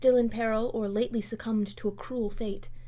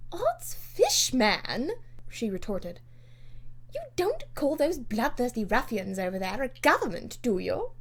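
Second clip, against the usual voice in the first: bluff retort; 3 semitones higher than usual. Acted. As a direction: scoff at him. Lady Portarles retorts.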